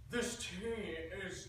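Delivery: slow, drawn-out pompous London accent; condescending, nasal British accent. Shown as a demonstration. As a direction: stretch it out like a snooty Brit. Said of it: "in the London slash British dialect".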